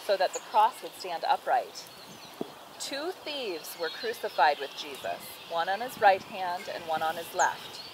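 put-on measured, clear read-aloud to a child; storybook narration with firmly projected key words; Bible story narration. A narrator's reading.

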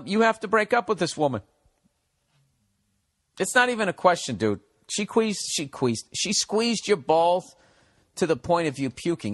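high cartoonish advice; clown voice. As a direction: lecture him like a silly clown. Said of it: "in your own clown voice".

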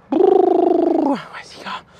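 high, very slow drawn-out tease; teasing sing-song. Acted. Trainer teasing the dog during tug play, high drawn-out sing-song.

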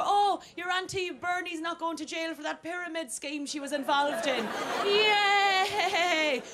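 high, bubbly good-news voice; hammed-up childlike delight; mock enthusiasm. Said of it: "go-to word for enthusiasm".

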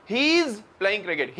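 he is blended into one quick hiz; British-style contraction. Shown as a demonstration. Teacher shows students the British way, blended he is. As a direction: run he is together the British way. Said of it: "British कह रहे हैं".

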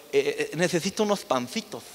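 a light hint of a Castilian accent with the Z lisp; understated Castilian accent asking for bread rolls; Spain Spanish accent. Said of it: "con este acento ... con la Z".

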